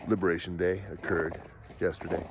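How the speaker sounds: a hint of a smug leader lecturing; Mark Carney impression. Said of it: "and talk the way that he does".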